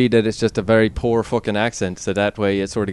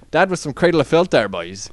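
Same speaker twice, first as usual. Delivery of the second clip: mock Irish accent. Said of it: "the Irish voice".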